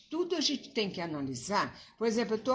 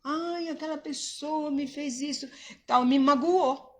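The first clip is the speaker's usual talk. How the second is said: higher, whiny voice of someone hurt; hurt complaint; 4 semitones higher than usual. Retold or imitated. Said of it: "a gente não pode fingir".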